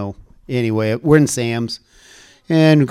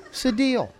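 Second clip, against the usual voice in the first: laughing agreement; 11 semitones higher, 7 dB quieter than usual. Retold or imitated.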